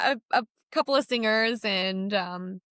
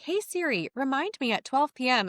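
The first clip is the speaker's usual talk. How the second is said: higher, like the Siri assistant voice; 5 semitones higher than usual. Retold or imitated. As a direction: imitate the phone assistant's voice. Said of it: "talking to it, like, in her voice".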